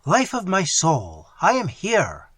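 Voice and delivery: slow, loud tender call; mother answering her dying daughter, slow; tender cry. Acted. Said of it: "cried Hippolyta".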